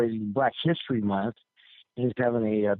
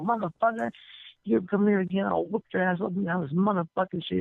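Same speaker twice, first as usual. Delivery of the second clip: high-pitched, worked-up mock threat; threatening; 8 semitones higher than usual. Big man warns off the prankster, mock threatening. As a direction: imitate an irate man warning off a prankster.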